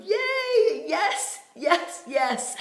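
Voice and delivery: high, loud celebratory squeals; gleeful, sing-out whooping, far above normal pitch; jubilant cheering. Retold or imitated. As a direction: cheer like every cell is doing backflips. Body cheering with joy in story.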